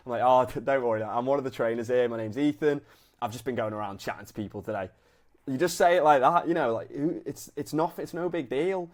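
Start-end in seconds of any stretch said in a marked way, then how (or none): 0.2-4.9 easy half-laugh through the intro. Shown as a demonstration. Coach shows how to reassure a confused gym member, half laughing. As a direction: chuckle it off, no big deal. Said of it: "I'm half laughing".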